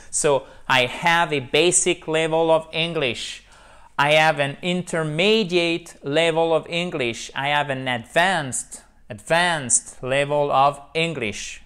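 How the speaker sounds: slow, careful English, stressed syllables marked; model English sentences. Shown as a demonstration. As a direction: read the model lines. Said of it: "Vous vous souvenez que tous les mots en anglais". (phrases modèles en anglais, lentes)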